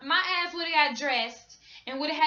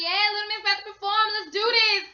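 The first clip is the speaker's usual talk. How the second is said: excited hype; 6 semitones higher, 4 dB louder than usual. Retold or imitated. Hyping herself for the concert.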